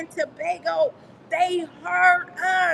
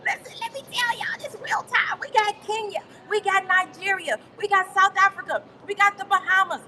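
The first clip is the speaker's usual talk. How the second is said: excited shout; 5 semitones higher, 4 dB louder than usual. Real, not acted. Coach shouts the new countries to the call in excitement. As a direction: announce every country like a win.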